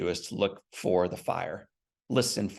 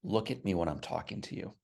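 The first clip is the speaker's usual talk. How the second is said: retold stern order. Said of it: "very sternly".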